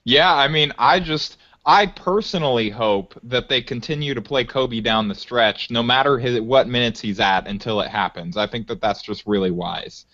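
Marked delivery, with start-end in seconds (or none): 1.7-10.1 deadpan sarcasm, pitch sinking toward the end; dry mock endorsement; sarcastic. Real, not acted. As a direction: say it with a straight face, dripping irony. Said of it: "I'm being incredibly sarcastic".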